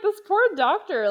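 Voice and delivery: loud, high exasperated exclamation; exclaiming. Retold or imitated. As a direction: cry it out in mock pity. Exasperated pity for the doctor.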